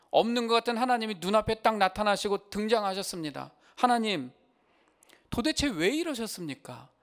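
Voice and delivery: 높고 크게 하나님께 따져 묻듯; 억울함을 쏟아내며 하나님께 항의하듯; 따지는 욥. Pretend. Job confronting God, imagined. (하나님 앞에서 따지는 욥처럼, 높고 큰 항의)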